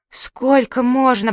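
slow, loud wail of despair; lamenting.

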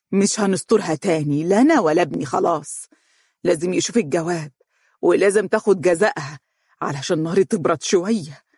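determined. Acted. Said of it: "وقالت بتصميم".

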